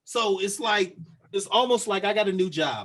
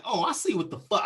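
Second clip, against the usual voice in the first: a touch of indignant realization, slightly raised; 2 semitones higher than usual. Retold or imitated. Man to officer who ordered him back, mildly indignant retort. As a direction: react as if catching on, mildly heated. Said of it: "I said it just like this".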